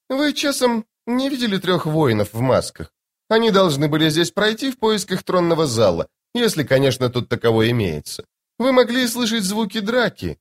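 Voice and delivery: high, sweetly airy lady's voice; lady in white. Acted. Strange woman asks soldiers about masked warriors, airy and high. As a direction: play the eerie serene beauty, light and high.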